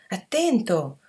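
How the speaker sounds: a mock alarmed shout; warning shout. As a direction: shout a quick warning to a friend. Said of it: "D'un tratto Pete gridò".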